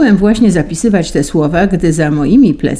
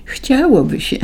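much higher, thin little voice; thin squeak; 8 semitones higher than usual. A narrator's reading. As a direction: squeak it out timidly. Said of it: "pisnąłem cieniutkim głosem". (piskliwy, cieniutki głos)

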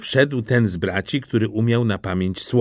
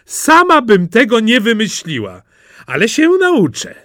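high, raised, eager voice; delighted admiration; 9 semitones higher, 5 dB louder than usual. A narrator's reading. Princess admires Simple Jack's trick, delighted admiration.

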